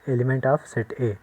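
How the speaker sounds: slow, drawn-out reading aloud; slow model reading. Shown as a demonstration. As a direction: show the class how it is read. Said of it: "ऐसे लिखेंगे".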